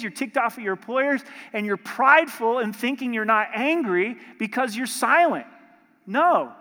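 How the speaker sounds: loud, rising rebuke from the pulpit; forceful preaching. Real, not acted. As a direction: hammer it home to the men. Preacher rebukes angry men.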